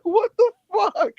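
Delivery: high, drawn-out incredulous cry; mock disbelief. Reacting to the tiny opponent, high stretched-out disbelief. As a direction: squeal it slowly in exaggerated bewilderment.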